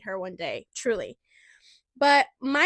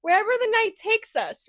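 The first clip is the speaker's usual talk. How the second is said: excited plan; 3 semitones higher, 4 dB louder than usual. Retold or imitated. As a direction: sell the night out with glee. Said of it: "And we're like".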